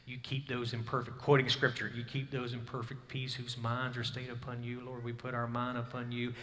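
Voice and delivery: soft, hushed prayer at the bedside; softly quoted bedside prayer; quiet prayer. Retold or imitated. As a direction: pray gently over her. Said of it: "saying, and praying".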